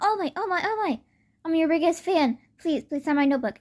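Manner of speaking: high-pitched fanboy pleading; imitated breathless-to-meet-you excitement; starstruck fan. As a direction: gush and beg your idol. Fanboy begs idol for autograph.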